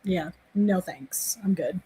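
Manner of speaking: hushed "no thanks"; whispered refusal. Real, not acted. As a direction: back away from the idea in a whisper. Refusing to see scary movie.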